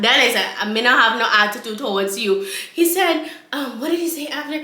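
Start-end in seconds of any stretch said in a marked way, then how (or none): 0.6-2.5 mock Rastafarian accent; Rastaman accent. Woman denying attitude, mock Rastafarian accent. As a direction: parrot his Rasta accent back. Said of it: "in this goddamn accent".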